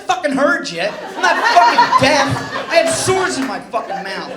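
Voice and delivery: snapping back at the doctor, mock outraged; a comic's hammed-up fury; retold angry outburst.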